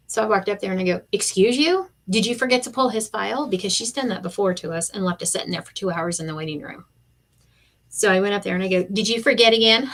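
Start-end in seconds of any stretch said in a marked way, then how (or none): 1.1-3.5 sassy confrontation. Retold or imitated. Confronting receptionist, retold. 8.8-9.9 sarcastic jab. Retold or imitated. Confronting receptionist, retold.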